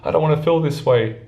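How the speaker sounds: high, overwhelmed panicky voice; self-mocking high panicked rant; panicked inner voice. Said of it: "I was like".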